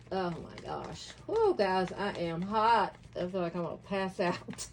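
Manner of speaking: overheated, fanning while talking; hot and faint, fanning herself; fanning oneself. Real, not acted. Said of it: "let me fan myself".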